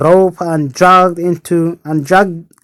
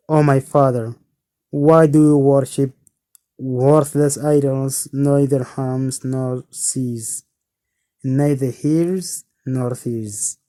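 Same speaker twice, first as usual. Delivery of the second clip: gentle, persuasive; 2 semitones lower than usual. Acted. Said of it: "in a gentle, persuasive way".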